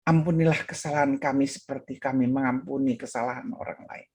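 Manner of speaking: low, even, composed retold prayer; calm prayer. Pastor resumes the prayer once at peace, calm. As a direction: pray it through steadily to the end. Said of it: "sampai dia merasa tenang".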